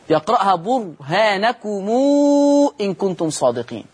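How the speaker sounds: برهانكم said slowly with the final mim joined by a long u before إن; slow recited demo of برهانكم; sila of mim demo. Shown as a demonstration. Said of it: "ميم جمع يقرأها".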